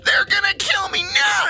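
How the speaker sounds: very high, loud, hammed-up terror; top-of-lungs scream. Rider begging not to be sent back inside, acted full-force scream. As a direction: scream and beg as if about to be killed. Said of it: "I just scream at the bo-, top of my lungs".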